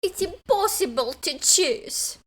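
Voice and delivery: accent-class monologue. Shown as a demonstration. Host reciting class monologue to find the accent, high theatrical accent. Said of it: "first part of the monologue".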